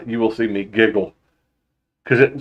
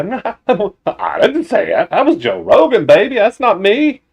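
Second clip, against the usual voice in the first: mock denial; 8 semitones higher than usual.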